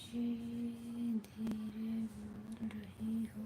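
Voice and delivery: very slow, soft read-out of a comment; reading under breath. Real, not acted. Streamer reading a viewer's comment to herself, very quietly. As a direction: murmur it slowly, word by word.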